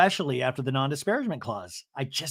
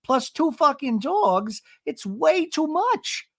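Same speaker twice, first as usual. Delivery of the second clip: high mock Gina complaint, slowing at the end; imitating Gina; 10 semitones higher than usual. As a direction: whine it high and stretch the last lines. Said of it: "she says".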